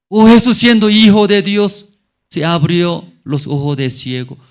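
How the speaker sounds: lightly acted scoffing onlooker; murmuring crowd. Preacher voices the Jews doubting Jesus at the tomb, mock scoffing. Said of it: "La gente que está murmurando".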